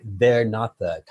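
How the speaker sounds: "they're not the" run together quick as one beat; slurred together. Shown as a demonstration. Slurring "they're not the" together to fit the timing. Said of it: "kind of slur together".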